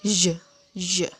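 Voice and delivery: J as a buzzed "zhuh"; vibrating zh sound. Shown as a demonstration. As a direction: say J like zh with throat vibrating. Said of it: "buat getaran dari arah tenggorokan". (bunyi J seperti "zh", bergetar dari tenggorokan)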